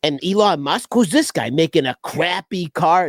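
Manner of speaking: lightly imitated Boston accent; a touch of Boston in a mock rant; Bill Burr. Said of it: "with his Boston accent".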